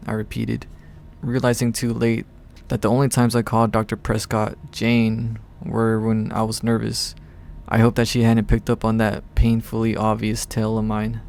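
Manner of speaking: measured audiobook-style read; story narration. A narrator's reading. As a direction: narrate the tale evenly in first person.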